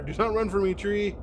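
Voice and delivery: furious tree shouting after a fleeing foe. Acted. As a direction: yell after someone running away.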